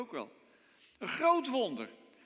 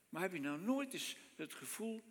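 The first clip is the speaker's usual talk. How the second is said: softer, intimate heb je nou nooit eens het gevoel; quiet repeat; 5 dB quieter than usual. Shown as a demonstration. Preacher repeating his question to the congregation, softer. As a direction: drop the voice and ask again gently. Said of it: "rhetorical question repeated".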